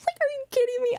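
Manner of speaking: laughing, can't believe it's true; laughing disbelief. Retold or imitated. Laughing at carabiner stereotype.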